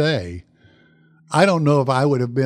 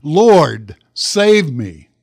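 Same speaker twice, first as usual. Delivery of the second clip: louder plea, punching "Lord"; preacher's imitation of a desperate cry; retold cry for help; 5 dB louder, much slower than usual. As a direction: call out "Lord" firmly, then let "save me" fall. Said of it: "That's man's cry".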